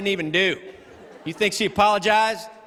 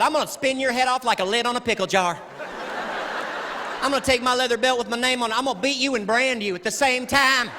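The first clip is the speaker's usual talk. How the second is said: higher-pitched imitated mom rant; threatening mother; 6 semitones higher than usual. Mom threatening her child, mock scolding. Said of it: "Oh, she was detailed".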